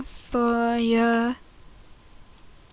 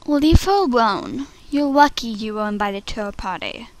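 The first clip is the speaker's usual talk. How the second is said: restrained reproach; 2 semitones lower than usual. Acted. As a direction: defend her without raising your voice. Audition take, restrained defence.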